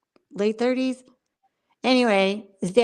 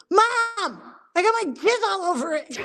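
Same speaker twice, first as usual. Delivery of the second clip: mock appalled outcry; 9 semitones higher than usual. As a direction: imitate a son wailing at his mother. Acts son's appalled outburst, laughing.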